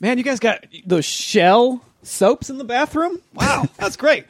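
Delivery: put-on lightly done Australian bloke accent, mate; a hint of a laid-back Australian neighbour; put-on Aussie accent. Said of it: "What do you think that accent is?".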